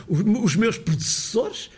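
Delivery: predecessores said as prudussoɾʃ, vowels dropped; European Portuguese. Shown as a demonstration. Lecturer quoting his own European Portuguese. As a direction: clip predecessores the Lisbon way. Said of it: "se eu diz".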